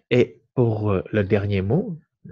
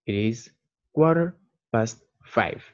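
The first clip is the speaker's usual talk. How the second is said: slow model sentence. Shown as a demonstration. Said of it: "je dirais".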